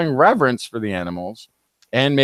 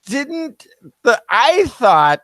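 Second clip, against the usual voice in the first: high, whiny, complaining voice; whiny high-pitched voice; 6 semitones higher, much slower than usual. Shown as a demonstration. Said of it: "I'm gonna just do the whiny, high-pitched voice".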